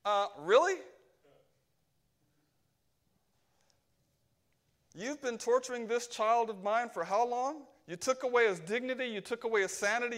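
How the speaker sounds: a touch of incredulous anger, quick; lightly voiced Jesus rebuking the demons; indignant retort. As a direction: scoff and press each charge home.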